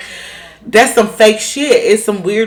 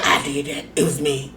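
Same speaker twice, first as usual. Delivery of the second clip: mock claim; 7 semitones lower, 9 dB quieter than usual. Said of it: "And she said".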